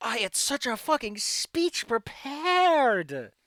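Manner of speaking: worn-out, exhausted, fed-up, exasperated voice. A player suggests a line for the game master, in a mock-exasperated, exhausted GM. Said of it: "You gotta put in the exasperated, exhausted GM".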